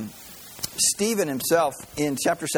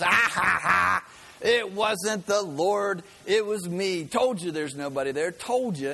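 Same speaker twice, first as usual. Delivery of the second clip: lightly voiced mock gloat, slow cackle; gloating neighbor; 5 semitones higher than usual. Atheist neighbor revealing the trick, mild mock gloat. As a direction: rub it in, a hint of triumph. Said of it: "And he goes".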